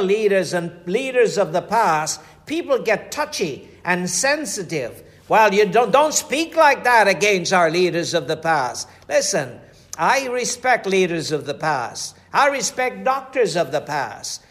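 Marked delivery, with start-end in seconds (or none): 5.3-8.9 louder, offended protest; indignant objection. Retold or imitated. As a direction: act out the touchy listener scolding. Offended listeners object to preacher.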